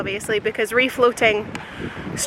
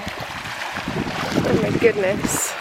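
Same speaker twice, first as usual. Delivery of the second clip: whispering; 4 dB quieter, much slower than usual. Real, not acted. Awed by the clear water.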